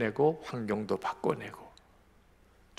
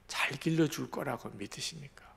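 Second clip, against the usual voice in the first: soft whisper; 2 semitones higher, 6 dB quieter than usual. Real, not acted. Preacher hushes the key point.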